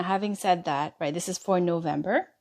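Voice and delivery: ordinary talk, nothing marked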